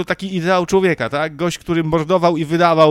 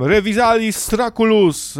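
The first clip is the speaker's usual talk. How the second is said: mock spell; 6 semitones higher than usual. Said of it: "krzyknął tam".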